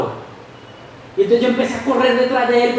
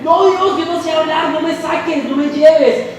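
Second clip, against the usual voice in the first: pleading Moses; 7 semitones higher than usual. Acted. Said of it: "Moisés le dice".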